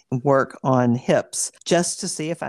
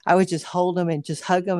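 ordinary talk, nothing marked

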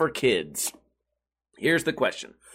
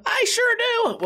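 high-pitched reply; slower than usual. Pretend. Answers his own question.

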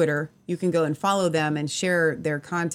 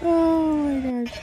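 laughing; 10 semitones higher, 3 dB louder than usual. Real, not acted. Cracking up over sheep video.

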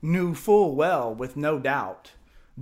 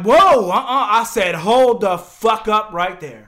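loud, higher, laughing protest; indignant shout; 4 semitones higher, 10 dB louder, slower than usual. Retold or imitated. Teller yelling at the lawn chair guys, loud and laughing. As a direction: shut them down through a laugh.

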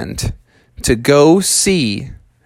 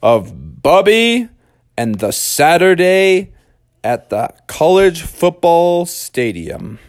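story show intro; 3 semitones higher than usual. A narrator's reading. Storyteller opening Bubby's stadium adventure, grand intro.

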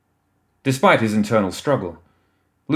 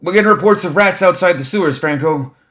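higher, louder staffer's holler; 9 semitones higher, 6 dB louder than usual. A narrator's reading. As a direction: holler across the busy meeting room. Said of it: "another staffer hollered".

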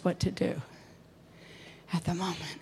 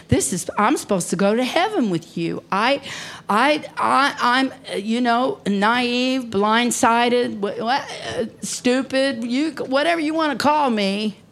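louder, higher, stumbling indignation; hurt outburst; 5 semitones higher, 5 dB louder than usual. Retold or imitated. Preacher reliving betrayal by someone she loved, hurt outburst. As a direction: pour out the betrayal, faltering for words. Reliving outrage at a trusted friend.

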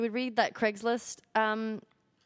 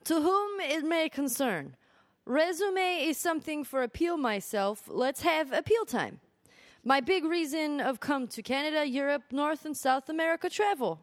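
higher-pitched, badly faked Korean accent; 3 semitones higher than usual. Co-host reading a job seeker's letter, mock Korean accent. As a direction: read it out in an attempted Korean accent. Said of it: "I'm gonna give him this accent".

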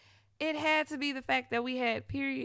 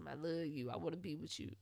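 mock lovesick ex; 5 semitones lower, 9 dB quieter, faster than usual. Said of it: "Tell us".

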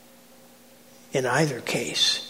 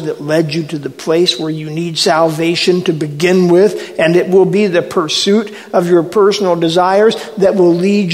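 louder, urgent preaching as Jesus; impassioned rebuke; 5 dB louder than usual. Acted. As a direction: build from firm reproof into forceful warning. Preacher voices Jesus rebuking followers.

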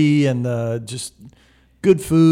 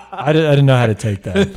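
laughing; 3 dB louder than usual. Real, not acted. Laughing at his own story.

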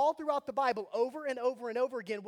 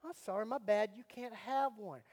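mock taunt; 5 dB quieter than usual. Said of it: "I'm gonna go".

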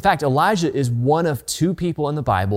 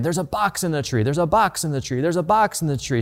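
mock yelling; 3 semitones higher than usual. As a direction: imitate an excited boy repeating himself, held back. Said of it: "he's yelling just over and over".

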